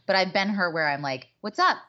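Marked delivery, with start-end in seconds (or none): 1.4-1.8 higher-pitched, chirpy mock greeting; eager pestering. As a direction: imitate someone angling for attention. Acts out her own pestering texts.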